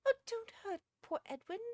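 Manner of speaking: very high, loud lady's plea; anxious pleading. A narrator's reading. Missus Uckridge pleads for the cat, anxious.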